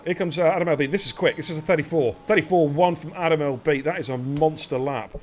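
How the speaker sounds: lively, quick-fire lap call; excited play-by-play of qualifying; live race commentary. Real, not acted. Calls qualifying laps live.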